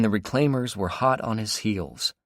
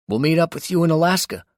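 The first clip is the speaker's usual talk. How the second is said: raised, higher call through a crackling radio; voice over radio static; 10 semitones higher, 8 dB louder, faster than usual. A narrator's reading. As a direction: push it through a bad radio line. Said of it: "over the static".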